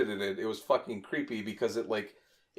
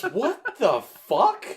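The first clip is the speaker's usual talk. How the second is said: mom's startled shout; 9 semitones higher, 6 dB louder, much slower than usual. Retold or imitated. Mom reacting from down the hall.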